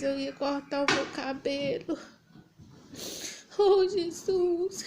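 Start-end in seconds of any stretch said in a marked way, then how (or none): 3.6-4.8 high, loud, drawn-out invocation; real anguished exclamation; crying out to Jesus. Real, not acted. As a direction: call out to God, slow and raised. Cries out to Jesus mid-testimony.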